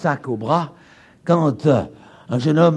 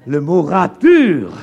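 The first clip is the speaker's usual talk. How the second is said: French accent; 4 dB louder than usual. Shown as a demonstration. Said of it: "excusez mon accent".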